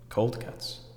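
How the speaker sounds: hushed revelation. Acted. Answer to own deep question.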